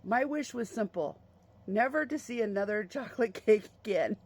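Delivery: retold quip with a small laugh breaking in; amused, giggly mock wish; giggling dad. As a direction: imitate a dad chuckling through his punchline. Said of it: "my dad smiled and giggled and goes".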